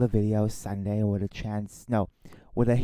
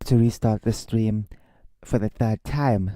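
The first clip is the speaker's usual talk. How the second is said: repeated much louder, projecting; 6 dB louder than usual. Shown as a demonstration. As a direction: push the voice out louder for the mic. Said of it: "I have to speak a bit louder".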